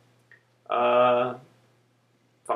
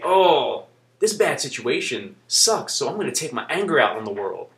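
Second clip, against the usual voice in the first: a touch of sulky self-pity; mocking bitter quote; 3 semitones lower than usual. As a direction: sneer out the wrong attitude. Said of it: "I didn't say".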